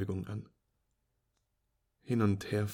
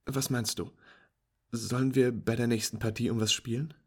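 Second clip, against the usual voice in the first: cheerful friend; 2 semitones higher, 5 dB louder than usual. Acted. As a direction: praise the beginner's lucky shot.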